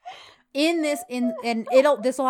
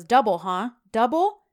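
loud, rising incredulous taunt, much higher at the end; mocking; 3 semitones higher, 8 dB louder than usual. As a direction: taunt the word double. John mocks Fabry's price again.

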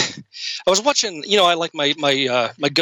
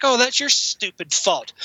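slow, higher-pitched exasperated reply; mock scolding; 6 semitones higher, slower than usual. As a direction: playfully chide the ghost.

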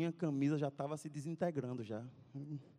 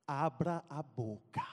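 slow, cold order; calm threat before the blow; a hint of a tough guy; menacing; 2 semitones lower, slower than usual. Corró threatens with mud.

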